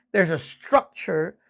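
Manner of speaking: ordinary talk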